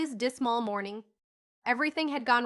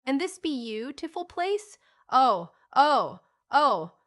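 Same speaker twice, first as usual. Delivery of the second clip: high, loud breathless delight; overjoyed gasp; 4 semitones higher, 7 dB louder, slower than usual. A narrator's reading. Child overwhelmed by the new home, exclaims. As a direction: gasp out the joy.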